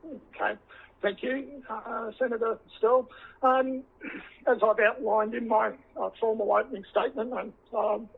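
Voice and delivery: hoarse voice after throat surgery; croaky voice. Real, not acted. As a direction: speak through a sore, croaky throat. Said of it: "forgive my, my croaky voice".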